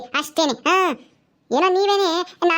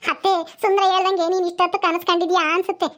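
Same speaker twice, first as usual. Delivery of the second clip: laughing. Acted. Teasing mother-in-law.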